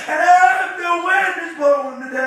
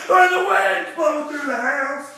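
preached shout; shouted line; 4 dB louder than usual. Acted. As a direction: belt it to the back pews.

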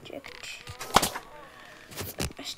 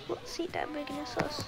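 whispering; 11 dB quieter, faster than usual. Real, not acted.

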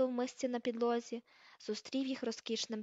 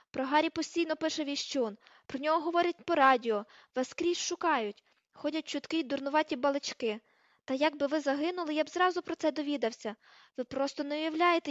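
slightly raised, defensive argument; insistent, higher-pitched protest; heated defence; 3 semitones higher, 3 dB louder than usual. Acted. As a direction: plead your case over the quarrel. Ron defending himself in a quarrel.

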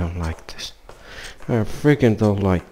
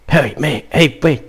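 calling out; 6 semitones higher, 5 dB louder than usual. Real, not acted. Calling out to character.

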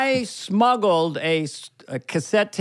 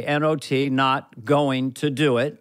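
lightly voiced Bush, slow and low; a hint of Bush drawing out the words; George Bush Senior; 3 semitones lower, slower than usual. Reading the cue card as Bush, slowly. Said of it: "George Bush Senior on the cue card".

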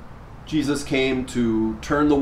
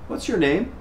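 voice of syrup; 6 semitones higher than usual. Acted. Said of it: "said in a voice of syrup".

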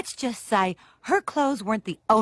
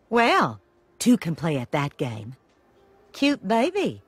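sarcastic. Acted.

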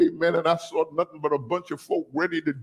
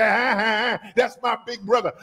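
little sister taunt; 4 semitones higher than usual. Retold or imitated. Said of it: "my little sister would step behind me and say".

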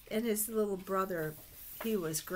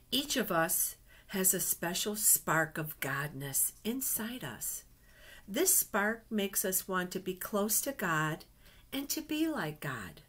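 lively picture-book storytelling voice; reading to children. Acted. Teacher reading a picture book to her class, storytelling voice. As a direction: read it like a storybook to little ones.

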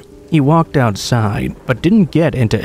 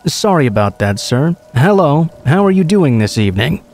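nervous greeting; 3 semitones higher than usual. Retold or imitated. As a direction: greet him a little too eagerly out of unease. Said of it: "I nervously smiled".

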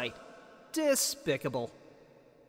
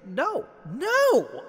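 alarmed shout; 7 semitones higher, 6 dB louder than usual. Acted. Character refuses a plea to kill.

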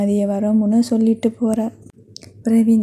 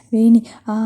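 mild mock yell; 4 dB louder than usual. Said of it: "கத்தினாள்".

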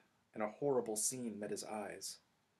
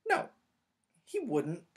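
higher and louder protest; protesting Hermione; 8 semitones higher, 7 dB louder, slower than usual. Acted. Hermione defending Snape to the boys, protesting. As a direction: insist he wouldn't. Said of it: "she said".

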